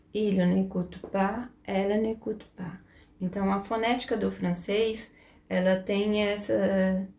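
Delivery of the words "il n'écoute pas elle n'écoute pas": "écoute" ending on the T sound, plural ending left silent; silent verb ending. Shown as a demonstration. Teacher showing the plural ending is not pronounced, silent ending. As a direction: say "n'écoute" with the written ONT ending unvoiced. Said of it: "como se o O N T não existisse".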